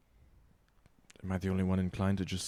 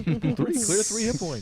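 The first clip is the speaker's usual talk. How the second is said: slow mock Aussie drawl; Australian accent; 13 semitones higher, 6 dB louder, much slower than usual. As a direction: stretch it out in a bad Australian accent. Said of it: "I can't do an Australian accent".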